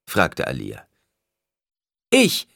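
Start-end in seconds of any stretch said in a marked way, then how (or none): 2.1-2.5 very high, loud call; crying out. A narrator's reading. A woman answers the oracle from afar, crying out. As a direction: call from the back of the temple. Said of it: "rief die Frau".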